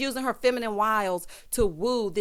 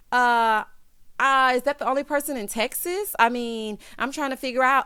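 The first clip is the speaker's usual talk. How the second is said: imitated Texas accent; 2 semitones higher than usual. Recapper mimics LaToya teasing Candy, mock Texas accent. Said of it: "trying to do a little accent".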